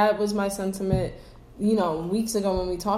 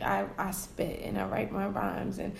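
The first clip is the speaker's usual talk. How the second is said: lightly voiced rapper bragging, a touch softer; mock rapper; 4 dB quieter than usual. Cohost mocking a rapper's claims about her lyrics, lightly put-on voice. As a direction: tease her boasting in a faintly put-on voice. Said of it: "she's always trying to tell us".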